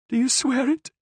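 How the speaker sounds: high, wary prisoner voice; prisoner's doubt. A narrator's reading. Prisoner demanding the Cardinal's oath, high and wary.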